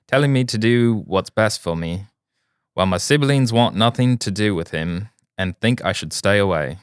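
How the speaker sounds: put-on British accent. Reading a listener's update in a mock British accent. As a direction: read it out as a mock British guy. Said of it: "some fucking British guy takes over".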